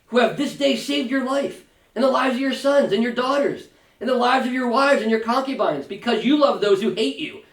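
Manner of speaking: a lightly voiced general scolding his king; Joab rebuking. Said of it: "Joab came into the house to the king and said".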